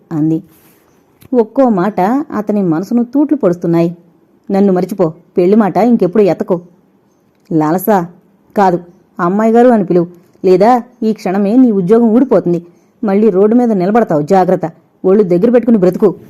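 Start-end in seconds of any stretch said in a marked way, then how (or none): 4.5-16.1 haughty threat. Acted. Heroine threatens servant suitor.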